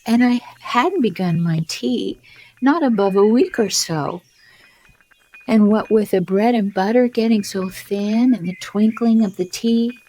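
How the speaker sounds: high, nervous rambling plea; trembling Hatter. A narrator's reading. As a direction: babble it out, afraid of the king. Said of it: "in a trembling voice".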